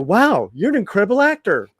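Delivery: mock praise. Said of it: "And it's like".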